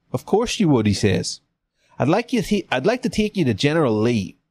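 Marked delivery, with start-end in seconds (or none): 0.1-0.9 Southern officer, pitched a little up; lightly put-on Southern accent; Frank Underwood accent. Confederate officer answering a local youngster, light Southern accent. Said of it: "That's a Frank Underwood accent". 2.0-4.4 Southern officer making an offer, starting high; lightly put-on Southern accent; Frank Underwood accent. Officer offering to take captive to Lee, light Southern accent. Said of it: "That's a Frank Underwood accent".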